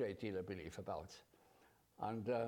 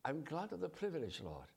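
grateful prayer; 4 semitones higher than usual. Retold or imitated. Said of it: "you feel".

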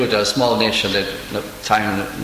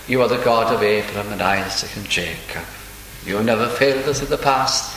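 lower, composed voice retelling a prayer; calm prayer; 3 semitones lower, 3 dB quieter than usual. Retold or imitated. Preacher voicing Jehoshaphat's prayer to God, calmly. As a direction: recount the prayer calmly, with quiet trust. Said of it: "very, very calmly said".

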